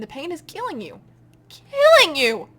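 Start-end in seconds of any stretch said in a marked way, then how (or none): 1.5-2.5 loud, higher, echoing; booming echo. Acted. Amoeba in Marlowe's head, booming echo. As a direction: make it ring through the head.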